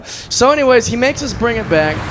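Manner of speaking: ordinary talk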